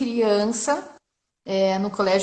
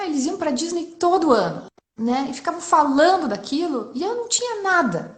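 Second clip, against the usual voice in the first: higher-pitched, aggrieved complaint; retold childhood grievance; 7 semitones higher than usual. Mother telling her children about childhood envy, aggrieved. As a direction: pour out an old hurt, pitched up.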